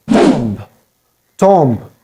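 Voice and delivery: "tomb" with short o and audible b; "tomb" rhymed with Tom, plus a b; mispronounced tomb. Shown as a demonstration.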